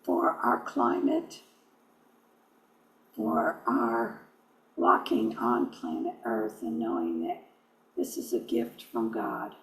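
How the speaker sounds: measured prayer with long reverent pauses; spoken prayer. Real, not acted. Leading listeners in a prayer for Mother Earth, unhurried prayerful delivery. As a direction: lead a prayer, phrase by phrase, pausing between.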